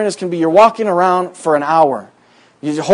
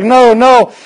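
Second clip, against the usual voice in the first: retold refusal; 7 semitones higher, 6 dB louder than usual. Roommate refuses.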